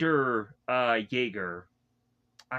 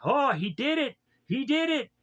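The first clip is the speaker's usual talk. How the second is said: high, thrilled cheering; excited cheer; 10 semitones higher than usual. Retold or imitated. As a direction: cheer like the crowd just saw him do it. Crowd cheering Aaron's balance.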